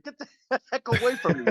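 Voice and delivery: high, laughing jump-scare shout; startled yell. Retold or imitated. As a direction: yelp it as you jump back.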